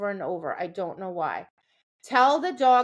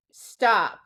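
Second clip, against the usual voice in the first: firm stop; 6 dB louder than usual. Shown as a demonstration. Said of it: "that's very concrete".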